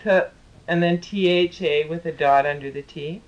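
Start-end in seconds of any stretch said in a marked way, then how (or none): 0.0-0.2 "T-" like a polite little spit; politely spat T. Shown as a demonstration. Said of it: "spitting politely".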